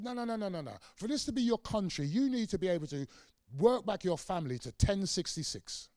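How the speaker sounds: mock lecturing official. Establishment voiced lecturing black youths.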